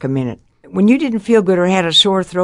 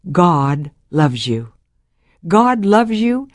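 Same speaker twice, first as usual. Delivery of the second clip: slow tender message; much slower than usual. Retold or imitated. Retold speaker's message.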